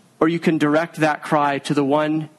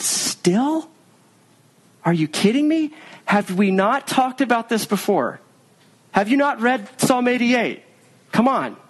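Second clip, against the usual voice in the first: high, incredulous mock scolding; eye-rolling exasperation; 7 semitones higher than usual. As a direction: roll your eyes through every line. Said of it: "rolled his eyes at his people and said".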